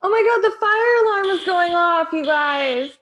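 shouting over fire alarm. Acted.

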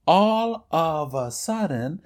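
all of a sudden drawn out slowly. Shown as a demonstration. Teacher repeats all of a sudden slowly for the students. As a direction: stretch out all of a sudden for the class to follow. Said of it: "y hago una pausa".

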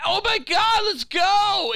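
high, loud excited squeal; mock excited squeal. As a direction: squeal it like a giddy agent rushing out. Scully bursting out excited.

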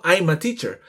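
"I'm a" joined like a single word; word linking. Shown as a demonstration. Teacher shows word linking, "I'm a" said as one word. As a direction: run "I'm a" together before teacher. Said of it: "Pareciera que yo digo I'm a".

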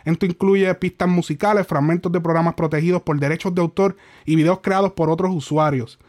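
quick, lowish, even read-out; reading email aloud. Real, not acted. Streamer reading the complaint email to viewers, even read-aloud. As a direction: read the formal text straight through, evenly. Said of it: "estoy leyendo el email".

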